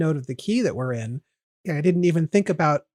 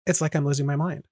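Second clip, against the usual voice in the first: plain spoken rhythm; 2 semitones lower, 4 dB quieter, faster than usual. Shown as a demonstration. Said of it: "It's just".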